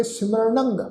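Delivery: ਸਿਮਰਨੰਗ with curled-tongue "ṇ", nasal end; retroflex n. Shown as a demonstration. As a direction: say ਸਿਮਰਨੰਗ as simra-ṇang. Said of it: "ਨਾਣੇ ਅੱਖਰ ਨਾਲ ਉਚਾਰਨ ਕਰਾਂਗੇ".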